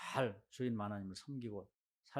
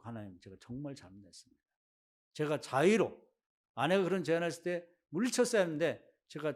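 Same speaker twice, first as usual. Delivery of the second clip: humble confession. Retold or imitated. Abraham kneels and repents.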